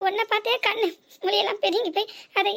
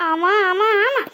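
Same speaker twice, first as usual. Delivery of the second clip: louder, insistent repeated yes; emphatic yes; 4 dB louder, slower than usual. Acted. Daughter-in-law insists to mother-in-law, emphatic yes. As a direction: drive each yes home.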